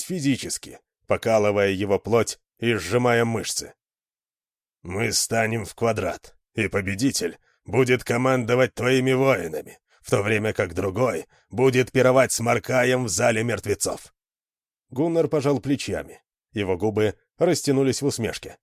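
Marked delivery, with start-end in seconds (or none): 4.8-14.1 viking growl. Acted. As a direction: growl it like a furious warrior. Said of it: "Ярость усилила его голос волчьим рычанием".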